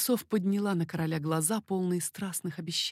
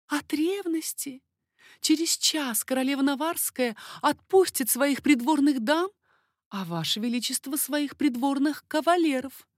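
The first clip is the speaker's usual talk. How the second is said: high, lively lady's voice, teasing; coquettish baroness; 6 semitones higher than usual. Acted. Baroness teasing King Henri, high coquettish voice. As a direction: play the flirtatious court lady. Baroness explains her jealousy.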